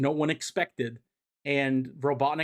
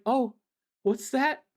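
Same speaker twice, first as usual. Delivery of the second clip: much higher, hammed-up villain voice; gloating Robotnik; 10 semitones higher than usual. Recapping the comic, Robotnik gloats in a high hammed-up voice. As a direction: crow about the trap like a cartoon mad scientist. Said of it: "And Robotnik's like".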